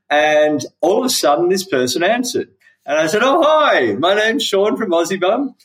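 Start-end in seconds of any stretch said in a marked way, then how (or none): 3.2-5.5 higher, bright put-on phone greeting, pretending to be someone else; pretend caller voice. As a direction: chirp the hello like a stranger on the phone. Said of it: "I pretended to be".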